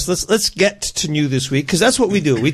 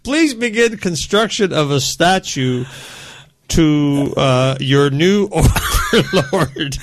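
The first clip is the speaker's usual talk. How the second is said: high robotic alien overlord, slightly slow; a hint of a synthesized villain voice; old speech synthesizer; 5 semitones higher, slower than usual. Alien villain sponsor message.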